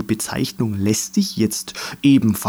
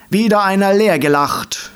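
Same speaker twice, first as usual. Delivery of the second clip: higher, called-out quip; calling out; 9 semitones higher, 3 dB louder than usual. A narrator's reading. Dandelion calls out after a friend laughed empty. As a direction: call it out with glee. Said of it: "rief der Löwenzahn neben ihm".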